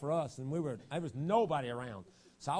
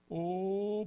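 sudden higher, louder cry; fervent cry; 6 semitones higher, 3 dB louder than usual. Real, not acted. Preacher crying out in prayer, fervent. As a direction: cry out to God.

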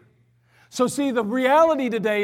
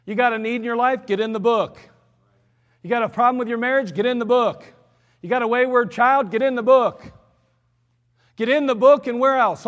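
building preaching refrain. Retold or imitated. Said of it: "It was like".

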